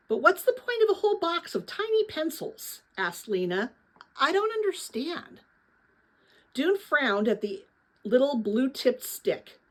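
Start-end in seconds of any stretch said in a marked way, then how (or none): 0.1-5.4 baffled Lena. A narrator's reading. Lena baffled by tiny pencils.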